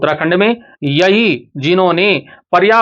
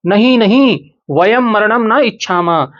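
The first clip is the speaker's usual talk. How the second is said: pleading cry; 5 semitones higher than usual. Acted. Students plead against dying.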